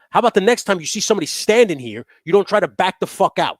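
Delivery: loud, high, furious telling-off; angry yell. Retold or imitated. Yelling at the driver who nearly backed into him. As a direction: bark it at him. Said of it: "I go".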